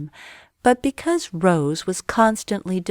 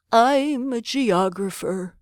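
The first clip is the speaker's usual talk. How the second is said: put-on old geographer; 4 semitones higher, slower than usual. A narrator's reading.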